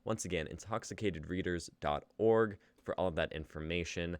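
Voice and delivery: host's attempted RP British accent, slipping in and out. Host closing the show for viewers, in attempted RP accent. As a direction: read the outro in your best RP English accent, sometimes losing it. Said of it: "but we do it in our best R P dialects".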